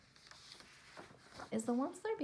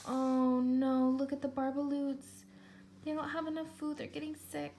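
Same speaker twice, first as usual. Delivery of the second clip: concerned aside; 3 semitones higher than usual. Real, not acted. Teacher aside to children, higher.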